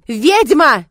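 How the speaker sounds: high, loud shriek; girl shrieking an accusation at the witch; piercing shriek. Acted. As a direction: scream it at the witch. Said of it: "неожиданно пронзительно заверещала".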